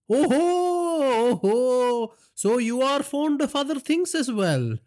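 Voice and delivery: high, amused mocking oh ho; gloating villain laugh. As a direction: relish the discovery.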